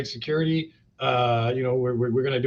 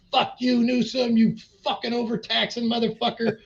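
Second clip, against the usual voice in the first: mock angry rant; 9 semitones higher than usual. Imitating his viral post against the governor, high hammed-up fury. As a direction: spit it out like a ranting post.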